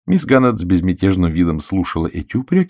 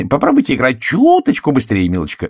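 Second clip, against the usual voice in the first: higher, louder prod; impatient exclaim; 6 semitones higher, 4 dB louder than usual. A narrator's reading. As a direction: hurry her along. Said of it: "воскликнула Кэролайн".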